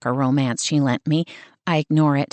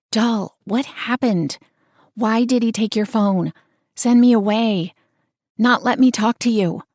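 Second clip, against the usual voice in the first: worried questioning; 4 semitones higher than usual. Acted. Frightened sister pleading on phone.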